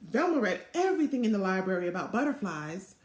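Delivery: lively storybook read-aloud voice; animated picture-book narration; reading to children. A narrator's reading.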